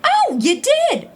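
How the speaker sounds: slow, high, sarcastic drawl; mock surprise. Wife mocking her ex's news, sarcastic surprise. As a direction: drip with sarcasm.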